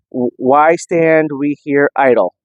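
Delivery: "why stand we here idle" stretched out slowly; slow, drawn-out recitation. Retold or imitated. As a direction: draw the line out like an old orator. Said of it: "I don't know why he says it that way".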